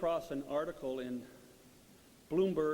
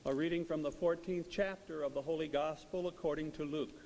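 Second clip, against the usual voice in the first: measured, solemn proclamation; gospel reading. Acted.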